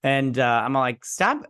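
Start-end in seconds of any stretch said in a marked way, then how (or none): 1.0-1.4 high-pitched exasperated plea; mock exasperation. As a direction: beg her to quit, in mock despair. Mock pleading with the actress.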